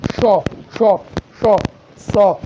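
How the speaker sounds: शौ and सौ hissed out clearly one by one; sibilant demo. Shown as a demonstration. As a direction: hiss each शौ and सौ. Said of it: "ये भी सभी क्या है".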